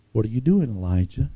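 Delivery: a light scolding tone; mild stern reproach. Shown as a demonstration. God questioning the hiding prophet, a mild scold. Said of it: "the first one was kind of a scold".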